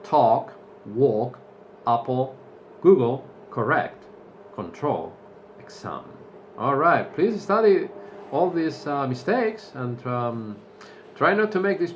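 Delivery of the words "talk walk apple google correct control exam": quick review. Shown as a demonstration. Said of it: "really fast".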